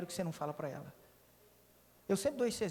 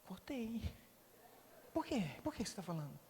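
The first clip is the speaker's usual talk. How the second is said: mild surprised wife; 2 semitones lower, 12 dB quieter than usual. Retold or imitated. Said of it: "Ela regala os olhos e fala".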